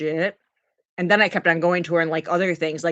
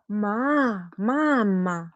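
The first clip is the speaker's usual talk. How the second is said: put-on child spirit calling; much slower than usual. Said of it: "she's imitating the spirit that she's seeing".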